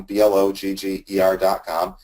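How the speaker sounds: B L O G G E R said one letter at a time, each letter separate and distinct; spelled out letter by letter. Shown as a demonstration. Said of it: "you can go to blogger dot com".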